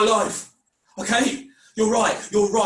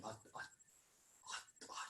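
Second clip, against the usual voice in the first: breathless stammer; 10 semitones lower, 31 dB quieter, much slower than usual. Acted. Stammering in panic before confession.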